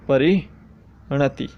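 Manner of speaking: परिणति spoken very slowly, syllables spaced; slow dictation of परिणति. Shown as a demonstration. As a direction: spell out परिणति by ear, slowly. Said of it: "परिणति शब्द".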